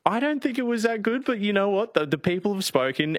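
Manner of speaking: high, cheeky Cockney lad; hammed-up Cockney voice; Cockney accent. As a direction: play it up as a London barrow boy. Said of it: "requested once more for a Cockney accent".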